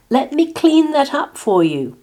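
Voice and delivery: high, loud, eager offer of help; apologetic Martina. A narrator's reading. Martina offers to clean the pig, high and fussing. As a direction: rush to make amends, high-voiced.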